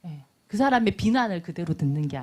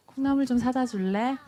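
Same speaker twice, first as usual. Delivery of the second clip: gentle request; 4 semitones higher than usual. Acted. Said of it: "mom asks child".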